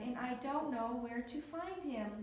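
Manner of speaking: ordinary delivery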